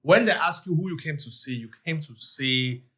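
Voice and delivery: put-on light Nigerian accent. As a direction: greet a Nigerian brother in his accent. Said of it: "You can actually do it in a Nigerian accent".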